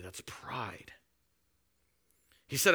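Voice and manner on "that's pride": whisper. Real, not acted. Quiet verdict after quote.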